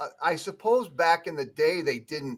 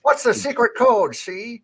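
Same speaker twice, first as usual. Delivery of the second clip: gangster voice; 8 semitones higher, 6 dB louder than usual. Pretend. Mock speakeasy gangster.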